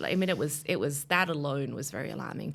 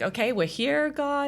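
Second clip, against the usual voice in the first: nervous prayer; 11 semitones higher, 6 dB louder than usual. Retold or imitated. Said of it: "I was like".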